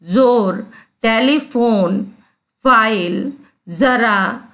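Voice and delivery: "जोर, टेलीफोन, फाइल, जरा" with z and f, word by word; nukta z and f. Shown as a demonstration. Teacher lists Arabic-derived sounds, z and f in "जोर, टेलीफोन, फाइल, जरा". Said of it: "फ के नीचे".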